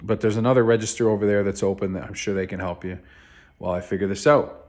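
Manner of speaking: fast, irritated snap; a mild retold snap, hurried; snapping at him. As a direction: brush him off quickly, annoyed. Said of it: "so I snapped at him".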